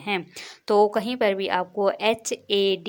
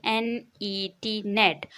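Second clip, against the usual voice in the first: slow spelling; slower than usual. Shown as a demonstration. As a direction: spell each letter gently. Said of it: "नेट की spelling देख लीजिए".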